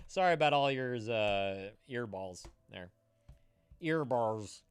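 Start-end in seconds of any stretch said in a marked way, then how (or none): 3.8-4.6 imitating Nay. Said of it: "as Nay would say it".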